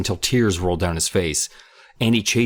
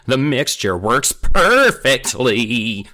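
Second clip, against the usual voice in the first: happy; 5 semitones higher, 6 dB louder, much slower than usual. A narrator's reading. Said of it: "Kermit declared happily".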